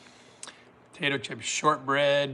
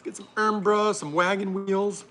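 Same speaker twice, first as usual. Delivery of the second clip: high mock-British voice; lightly put-on British, pitched up; attempted British accent; 5 semitones higher, 3 dB louder than usual. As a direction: try a playful British accent. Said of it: "I can't do my very British accent".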